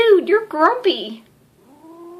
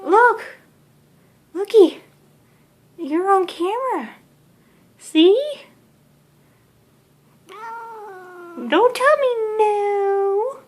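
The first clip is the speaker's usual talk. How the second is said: high coaxing cat talk; 5 semitones higher than usual. Real, not acted. Owner coaxing her grumpy cat to look, high baby talk.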